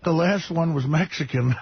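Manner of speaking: muffled, talking round a marker; words blocked by something in mouth. Acted. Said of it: "your fist in your mouth on that impression".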